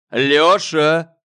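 loud commanding call of the name; thundering. A narrator's reading. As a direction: thunder his name to shut him up. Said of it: "прогремел Ефимыч-старший". (старший брат громогласно осаживает младшего)

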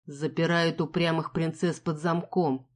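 grind it out, barely opening the mouth; through gritted teeth. Acted. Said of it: "процедил он".

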